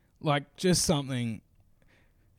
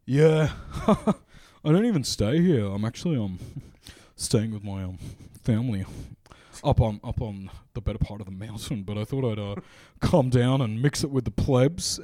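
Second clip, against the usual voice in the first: smug posh Sydney North Shore bloke, partly laughing; a hint of a drunk posh bloke; 5 dB louder than usual. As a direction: lightly play the entitled rich kid. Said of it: "Sydney North Shore vibe".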